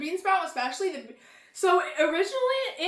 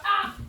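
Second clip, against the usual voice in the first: startled yelp; 6 semitones higher, 5 dB louder than usual. Real, not acted. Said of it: "Sorry, I almost fell back".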